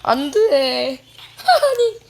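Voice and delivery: slow, loud no breaking into laughter; laughing no. Real, not acted. Gamer overrun by enemies, laughing despair. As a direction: laugh through the no.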